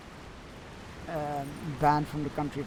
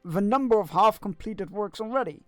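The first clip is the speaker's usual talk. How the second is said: lightly voiced busy craftsman, a touch louder; courtly artisan NPC; 3 semitones higher, 7 dB louder than usual.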